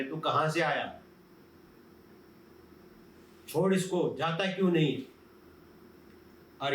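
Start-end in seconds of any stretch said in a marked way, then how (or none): 0.0-5.0 mock exorcist scolding. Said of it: "दुष्ट आत्मा के साथ इंटरव्यू कर रहे".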